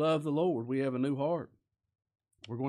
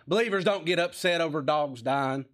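louder, emphatic mock rebuke; scolding; 2 semitones higher, 5 dB louder than usual. Somebody correcting a believer whose dog died, scolding. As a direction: get on to a grieving believer. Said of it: "get on to him".

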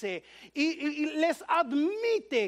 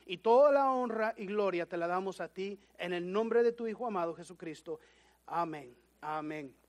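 prayer. Acted. Pastor praying with the congregation before the sermon. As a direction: pray humbly for understanding.

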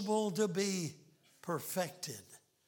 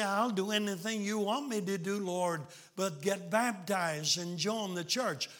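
mocking sing-song; 3 semitones higher than usual. Mocking a reluctant believer.

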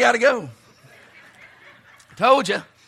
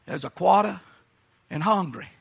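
South Carolina accent; 3 semitones lower than usual. Shown as a demonstration. Preacher showing South Carolina folks their words, South Carolina accent. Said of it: "Some of you folks from South Carolina".

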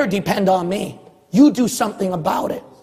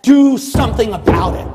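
preaching shout; 4 dB louder than usual. Real, not acted. Final sermon call to action.

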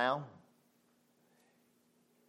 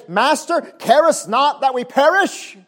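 louder, higher, pleading; frightened disciples; 9 semitones higher, 8 dB louder, slower than usual. Acted. Disciples in the storm begging Jesus, panicked plea. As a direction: cry out to the sleeping master. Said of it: "they say".

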